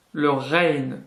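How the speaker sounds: "rein" with a strong R from the back of the throat; marked guttural R. Shown as a demonstration. Teacher naming the similar letter, marked guttural R. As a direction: gargle the R of "rein". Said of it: "qui est beaucoup plus marqué".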